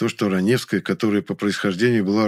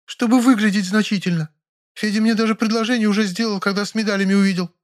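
high, frightened maid; 12 semitones higher than usual. Acted. Maid begs him not to call the police, frightened and high. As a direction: beg in a high scared voice. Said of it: "пискнула Нюра".

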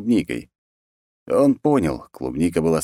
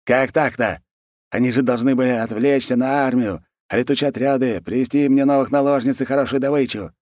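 higher-pitched aggrieved ruler; indignant khan; 8 semitones higher than usual. Acted. Khan protests his failed raid plan, high indignant voice. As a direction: complain with raised pitch, put out.

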